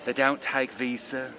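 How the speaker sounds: slow imitation of a British accent; mock British accent. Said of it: "that same accent of British".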